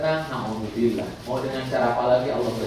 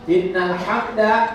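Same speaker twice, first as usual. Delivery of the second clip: recited Arabic; 7 semitones higher, 7 dB louder, much slower than usual. Shown as a demonstration. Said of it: "segala puji".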